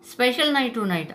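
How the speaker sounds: drawn-out mocking tone; taunting.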